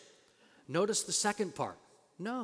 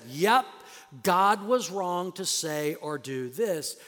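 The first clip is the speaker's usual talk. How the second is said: rising proclamation; 3 semitones higher, 5 dB louder than usual. Retold or imitated. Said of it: "he realizes this".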